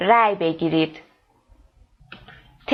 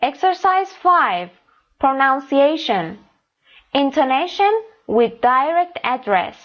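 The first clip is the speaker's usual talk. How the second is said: slow announcing read; 4 semitones higher, much slower than usual. Shown as a demonstration. Teacher reads exercise title.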